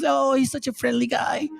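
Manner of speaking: mock the gullible admirer; naive believer. Mocking believers' naive praise.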